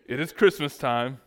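loud, half-hearted trailer announcer; movie trailer announcer. Acted. Pastor opening a mock Christmas movie trailer, loud announcer attempt. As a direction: attempt a big movie-trailer voice, not very convincingly. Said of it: "not even a good movie trailer announcer voice".

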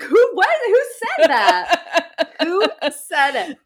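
high, loud, bewildered calling out; confused. Retold or imitated. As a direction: call out baffled, fading. Retold confused reaction.

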